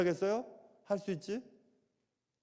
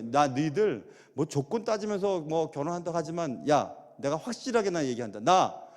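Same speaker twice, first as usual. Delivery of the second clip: retold own words; 2 semitones lower than usual. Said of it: "내가 얘기했어요".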